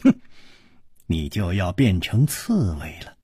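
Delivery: low, controlled angry threat; understated anger with one sudden rise; Hua Jingong, angry. A narrator's reading. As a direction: menace held low, flaring briefly. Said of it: "花金公怒道".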